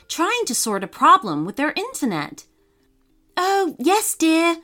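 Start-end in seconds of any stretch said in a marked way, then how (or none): 3.4-4.6 lightly voiced busy mum, quick and absent; distracted mum. A narrator's reading. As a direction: toss it off, mind on the phone. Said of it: "she replied quickly".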